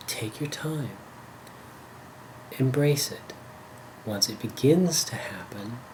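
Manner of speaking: calm guiding voice, spaced-out short phrases; unhurried body-scan guidance; guided meditation. Acted. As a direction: ease them into the experience with long pauses. Guides a focusing exercise.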